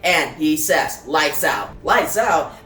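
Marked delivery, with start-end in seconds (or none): 1.1-1.7 low, falling statement; mildly voiced low command; terse statement. Batman's order, echoed by Joker. 1.8-2.6 lightly voiced indignant repeat; questioning echo. Joker echoes Batman in disbelief.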